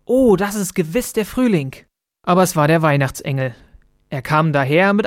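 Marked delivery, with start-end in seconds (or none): 0.0-1.8 little bird's thought. A narrator's reading. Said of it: "Zizi Bä dachte".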